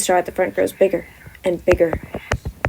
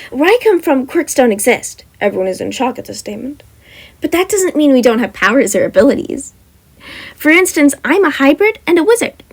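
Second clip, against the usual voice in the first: higher, louder, brisk explaining; wizard girl explaining; 4 semitones higher, 4 dB louder than usual. Acted. Wizard explaining her powers to the class, brisk and bright. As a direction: rattle it off cheerfully.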